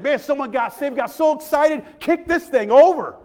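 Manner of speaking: rising to a loud, high excited cry; a preacher so thrilled he could kick the pulpit. Retold or imitated. Preacher shouting with joy that someone got saved, excited.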